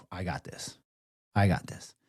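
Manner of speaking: low, hushed word to oneself; quiet self-steadying. Retold or imitated. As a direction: settle yourself under your breath. Steadying himself amid others' panic.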